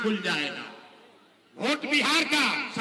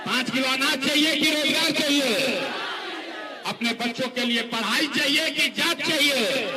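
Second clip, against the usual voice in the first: booming political rally speech. Real, not acted.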